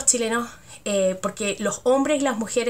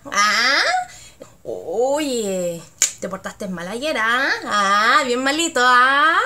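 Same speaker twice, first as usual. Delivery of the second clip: teasing Chilean friend; slower than usual. Shown as a demonstration. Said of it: "Como diciendo".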